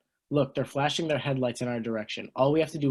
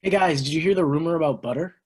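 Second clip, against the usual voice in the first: louder, higher, bursting with news; eager gossip; 4 semitones higher, 6 dB louder than usual. Acted. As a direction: lean in with juicy gossip. Teen gossiping to friends.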